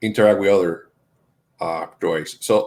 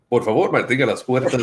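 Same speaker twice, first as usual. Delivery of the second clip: Spanish announcement. Retold or imitated. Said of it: "I hear it every five seconds".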